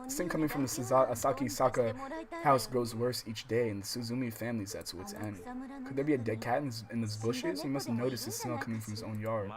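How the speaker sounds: steady read-aloud voice for the novel; calm visual novel reading; story narration. Acted.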